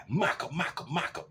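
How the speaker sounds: rhythmic mock whacking noise; imitated paddle whacks. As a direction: mimic quick repeated swats.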